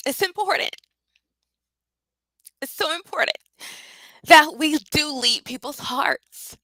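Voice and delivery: high, tearful voice pushing through; crying while speaking. Real, not acted. Coach crying as she tells viewers why it matters. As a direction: speak through real tears. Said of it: "I'm literally crying here".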